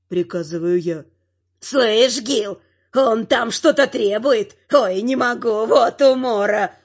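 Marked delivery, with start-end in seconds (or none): 1.6-6.7 guffawing guard. A narrator's reading. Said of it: "ржал первый".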